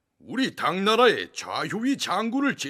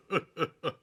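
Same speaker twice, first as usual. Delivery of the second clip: pleased chuckle; 3 dB quieter than usual. Acted. Emperor pleased at the news.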